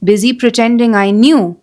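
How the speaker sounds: measured poem reading with long pauses between phrases; unhurried, deliberate verse reading; poem recitation. Acted. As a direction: recite it line by line, letting each phrase hang. Reads a poem aloud.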